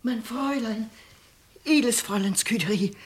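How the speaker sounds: whispered wake-up call; a servant waking her lady in the night; urgent whisper. Acted. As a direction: whisper to rouse her gently.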